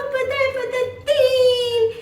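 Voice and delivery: put-on high, loud, excited child blurting it out; eager answer. Beenu shouts the riddle's answer to Tomu, high and excited. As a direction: jump in with the answer, bursting with excitement.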